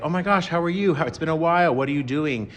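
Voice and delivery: excited greeting. Retold or imitated. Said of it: "you're doing that, like".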